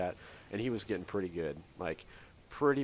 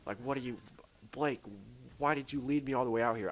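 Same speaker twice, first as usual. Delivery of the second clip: higher-pitched, exasperated mock scolding; mildly pissed-off retelling, pitched up; retold annoyance; 4 semitones higher, 3 dB quieter than usual. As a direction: act out being fed up with a brother, without shouting. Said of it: "I'm getting pissed, obviously".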